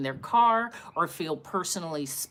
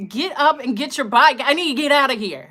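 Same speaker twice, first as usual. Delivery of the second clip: louder, rushed inner panic; panicked inner urging; 5 semitones higher, 8 dB louder, faster than usual. Retold or imitated. Urging the fallen kid to move, louder panicked thoughts. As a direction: hurry him up in your head, panicking. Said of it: "how is this happening?".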